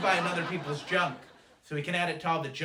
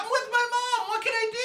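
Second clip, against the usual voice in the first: very high, loud mock yell; hammed-up desperate wail; helpless shouted protest; 6 dB louder than usual. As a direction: shout back in exasperated despair. Yelling back at honking drivers.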